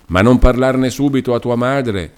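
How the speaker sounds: a touch of irritation softened by love; mild vexed fondness. A narrator's reading. Mother gently scolding her daughter, mildly annoyed yet loving. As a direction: scold her lightly, with affection. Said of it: "con una certa stizzetta temperata d'amorevolezza".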